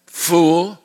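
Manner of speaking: "Fool" with an exclamation point, sharply; exclaimed "Fool". Acted. God rebuking the rich man, exclaimed. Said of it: "with an exclamation point".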